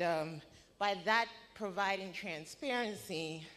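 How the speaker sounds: breathless, gulping air between phrases; out of breath. Real, not acted. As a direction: push through while winded. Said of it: "Sorry, I'm out of breath".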